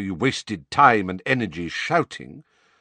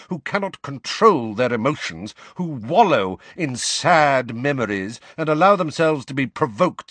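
louder, savage tirade; 4 semitones higher, 4 dB louder than usual. Acted. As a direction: tear into him savagely. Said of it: "said Snape savagely".

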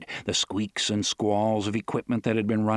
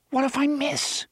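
furious whisper. A narrator's reading. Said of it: "Eddie whispered at him furiously".

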